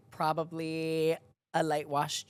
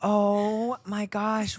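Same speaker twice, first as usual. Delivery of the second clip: surprised; much slower than usual. Real, not acted. Sudden realisation, drawn out.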